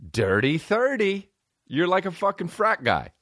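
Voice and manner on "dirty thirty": mock high rhyme.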